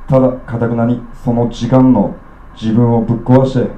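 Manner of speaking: measured spoken-word reading, each phrase set apart; poetry recitation. Acted. Poet reciting to the audience, measured spoken-word delivery. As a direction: read it like a poem to a live room. Recites his poem on stage.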